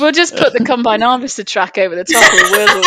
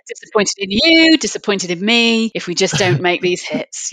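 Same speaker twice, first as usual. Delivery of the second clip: disappointed mum talk; 3 dB quieter than usual. Pretend. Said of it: "like the equivalent of a mum talk".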